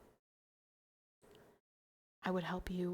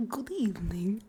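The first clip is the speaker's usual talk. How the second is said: whispered; 5 dB louder, slower than usual. Shown as a demonstration. Streamer re-greets chat in ASMR style, whispering. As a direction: breathe "Good evening" close to the mic.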